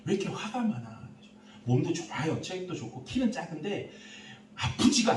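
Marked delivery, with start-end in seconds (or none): 0.1-1.0 gentle concern. Retold or imitated. Pastor gently asks the youth.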